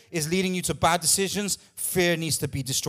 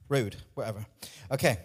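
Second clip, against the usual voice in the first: ordinary talk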